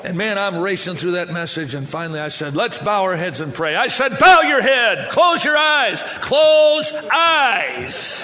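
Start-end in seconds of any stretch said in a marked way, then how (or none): 4.2-8.2 high, loud barked command; exasperated shout. Retold or imitated. Frustrated preacher ordering a rowdy crowd to pray, shouting. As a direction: yell each order, stretching the last.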